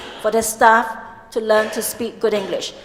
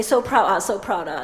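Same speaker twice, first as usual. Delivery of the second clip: Singlish teasing; 4 semitones lower than usual. Retold or imitated. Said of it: "they'll say".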